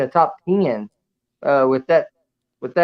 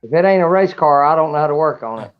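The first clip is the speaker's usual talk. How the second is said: repeated clearly. Real, not acted. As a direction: repeat it plainly so they hear. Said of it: "What was that?".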